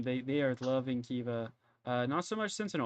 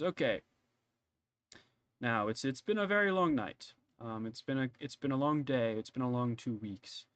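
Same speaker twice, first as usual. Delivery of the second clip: Lord Kirschwood; 3 semitones lower, 4 dB quieter than usual. Acted. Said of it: "Lord Kirschwood".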